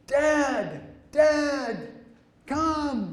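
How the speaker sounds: very high, loud yell, one word stretched long. Retelling a son calling from far out in the water: imitating someone yelling. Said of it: "he starts yelling".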